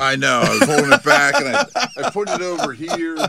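coughing and laughing, choked up; strained after water went down wrong; choking on a drink. Real, not acted. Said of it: "Water went down the wrong pipe".

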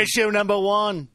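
loud, high TV pundit impression; McLaughlin. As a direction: bellow the topic like a panel-show host. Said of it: "It's the speaker's chief impression".

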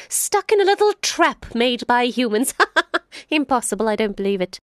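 sly jackal. Acted. Jackal pretending to leave the lion and boy, high and chirpy. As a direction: play innocent and fluttery.

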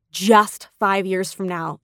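"just" set apart and drawn out; stress on just. Real, not acted. Message for someone in a dark time, stress on "just". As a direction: lean slowly on the word "just", low pitch. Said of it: "the emphasis on just".

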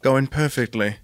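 low, slow scheming villain. Acted. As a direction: savour the evil plan. Villain reveals plan aside.

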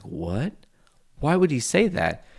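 sudden high alarmed question; startled, heart fluttering. Retold or imitated. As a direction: jump up in pitch, startled. Retold panic at dad's words.

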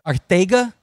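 Arcega tried as "ar-THAY-ga", rising. Shown as a demonstration. Host checks the corrected name, Arcega as a question with TH. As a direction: ask Arcega back with a TH for the C. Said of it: "Yeah, that's how he says it".

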